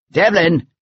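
restrained call down a tunnel; echoing call. A narrator's reading. Pursuer calls to the fugitive in the tunnel, restrained call. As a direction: send the name out, falling at the end. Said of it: "Portland's voice echoed through the shadowy tunnel".

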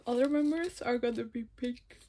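words through a yawn. Real, not acted. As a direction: talk while stifling a yawn. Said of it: "I'm always yawning".

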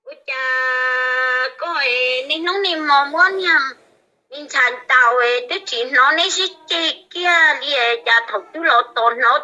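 loud excited calling out; shouting. Acted. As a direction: belt it out at full volume.

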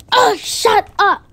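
high, slow, crying shut up; tearful snap. Acted. Girl yells at teacher, crying. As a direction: lash out through tears.

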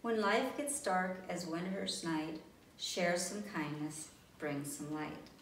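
the book's moral read tenderly; gentle rhyme. A narrator's reading. Story's rhyming moral.

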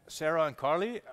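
loud, puzzled gossip about friends buying shares; mock surprised friends. Friends spotting the Facebook post, loud mock surprise.

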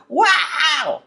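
sudden high cry of amazement; real surprise. Real, not acted. Tarot reader startled by the card she just drew, high surprised cry. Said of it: "Talk about my reaction".

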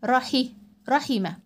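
quick kasra in رحي، رحمة; short i in رحي، رحمة. Shown as a demonstration. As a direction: keep the i brief in رحي، رحمة. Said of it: "الكسرة حركة قصيرة".

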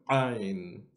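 Ain said sharp from the inner throat; correct Ain. Shown as a demonstration. Teacher shows students the correct Ain. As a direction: squeeze Ain from the back of the throat. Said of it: "which is the correct one".

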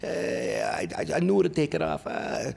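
high, loud put-on mother voice; mother's voice. Mother tells her son they'll take it off, in a high put-on voice. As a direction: play his mom, high and bossy. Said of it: "My mother".

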